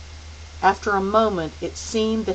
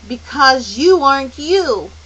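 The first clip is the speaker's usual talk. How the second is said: put-on high child voice; 7 semitones higher, 9 dB louder than usual. A narrator's reading. Charles Wallace accuses.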